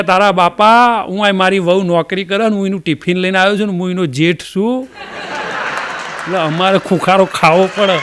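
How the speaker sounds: hint of a fed-up old man explaining; exasperated old uncle. Old man tells the staff he only coughed as a polite signal, grumbling.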